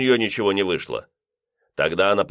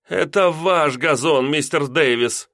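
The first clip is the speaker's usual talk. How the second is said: slow, pressing on «Это», higher; with emphasis; 7 semitones higher, slower than usual. A narrator's reading. Landlady correcting the lodger, slow and emphatic. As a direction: lean hard on «Это ваш газон». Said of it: "с нажимом произнесла".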